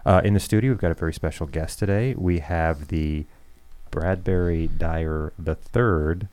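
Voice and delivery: radio voice. Shown as a demonstration. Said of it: "I'm trying to perfect my radio voice".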